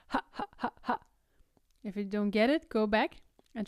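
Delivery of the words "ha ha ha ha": airy unvoiced ha, ha, ha, ha; teacher demonstrates the exercise, breathy glottal ha. Shown as a demonstration. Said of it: "Try it".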